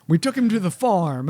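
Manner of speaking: a hint of simple brute, laughing; lightly voiced caveman. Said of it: "these are my caveman voices".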